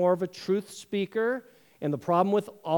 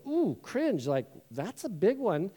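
mock cringe; 3 dB quieter, slower than usual. Preacher voices congregation reacting to murder, cringing. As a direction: imitate a listener wincing. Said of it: "most of you go".

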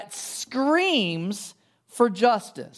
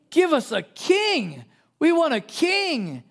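demanding crowd; 6 semitones higher, slower than usual. Pretend.

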